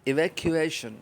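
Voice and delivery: ایویکویشن said loud and high as "ee-vak-yoo-ay-shun", falling; model pronunciation. Shown as a demonstration. Teacher modelling a word for children to repeat, loud. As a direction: pronounce ایویکویشن clearly syllable by syllable. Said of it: "آپ بھی میرے ساتھ پڑھیں".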